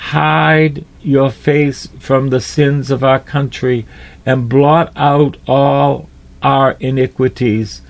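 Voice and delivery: prayer. Acted. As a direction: pray it earnestly, word by word.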